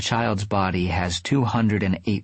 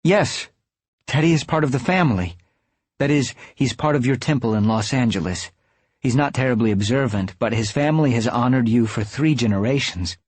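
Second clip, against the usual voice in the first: higher, brighter eager voice; brightening; 4 semitones higher than usual. Acted. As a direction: perk up happily. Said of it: "Amanda brightens".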